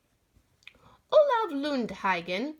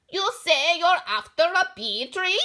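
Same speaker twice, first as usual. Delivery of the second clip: higher, louder shriek; 6 semitones higher, 7 dB louder than usual. Acted. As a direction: shriek the question in surprise. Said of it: "she shrieked".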